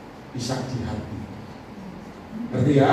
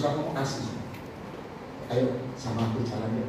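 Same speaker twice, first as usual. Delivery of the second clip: softer, lower tender invitation; loving, gentle; 4 semitones lower, 8 dB quieter than usual. Retold or imitated. Jesus inviting someone to walk with him, gentle and loving. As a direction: invite kindly, keeping the voice down. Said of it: "Itu Yesus kasih".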